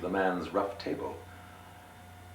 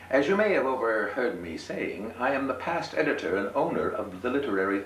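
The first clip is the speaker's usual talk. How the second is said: higher, grand gentleman voice; 5 semitones higher, 4 dB louder than usual. Acted. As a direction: announce yourself grandly. Gentleman introduces himself.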